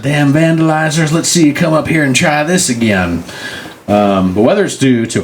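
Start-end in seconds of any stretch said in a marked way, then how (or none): 0.0-3.2 high-pitched mock threat; indignant watchman. Watchman warning off vandalizing kids, mock anger. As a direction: dare them back in a hammed-up high voice.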